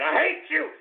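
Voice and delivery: rising anger, still held back; first hate, building; angry. Real, not acted. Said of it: "can you feel the anger".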